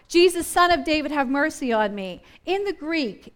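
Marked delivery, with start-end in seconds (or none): 0.1-2.2 blind man calling out to Jesus, voice only a little raised; half-hearted imitation of a shout; mild retold shout. Blind beggar shouting to Jesus for mercy, mildly acted. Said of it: "the man begins to shout".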